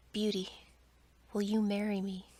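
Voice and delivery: a hint of a fearsome Beast, said firmly; terrible voice. A narrator's reading. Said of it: "asked her in his terrible voice".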